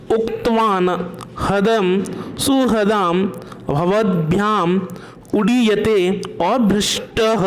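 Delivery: careful word-by-word Sanskrit recitation; pronunciation drill. Shown as a demonstration. Teacher modelling Sanskrit words for pupils to pronounce, careful drill. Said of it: "उच्चारण करना, बोलना इनको".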